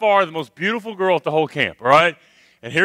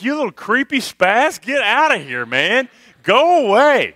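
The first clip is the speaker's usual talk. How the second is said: mock girls' brush-off; 4 semitones higher than usual. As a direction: shoo him off like annoying girls. Girls telling the boy off.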